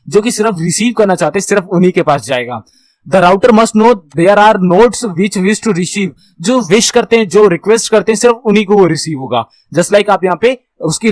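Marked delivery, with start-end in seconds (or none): 3.1-6.1 reads each English word very slowly; slow slide reading. Shown as a demonstration. Teacher reading the slide to students, very slow and deliberate. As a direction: dictate the slide line slowly to the class.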